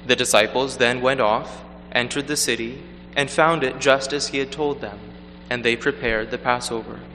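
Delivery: measured liturgical proclamation; Gospel reading. Acted. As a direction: read solemnly from the lectern.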